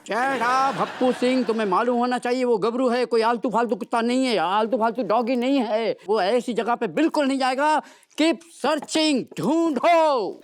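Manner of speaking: officer's emphatic dressing-down; showy scolding. Acted. Officer scolding subordinate over missing Gabru, showy telling-off. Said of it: "कैसी डांट लगाई मैंने".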